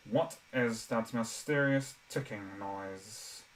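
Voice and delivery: slow, drawn-out puppet-show villain; Professor Snape. Shown as a demonstration. Streamer does the Potter Puppet Pals bit, slow impression. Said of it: "I could do my Professor Snape impression".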